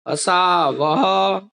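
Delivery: असा वह drawn out very slowly; slow dictation. Shown as a demonstration. Teacher dictates असा वह to students, very slow. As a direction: spell out असा वह slowly so they can write it. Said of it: "तो ये वाला लिख दो".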